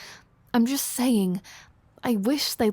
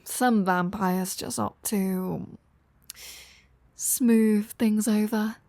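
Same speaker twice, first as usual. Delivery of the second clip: slow; slower than usual. Acted. Slow euphemistic delivery.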